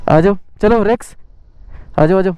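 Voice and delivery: high coaxing call; calling the dog. Real, not acted.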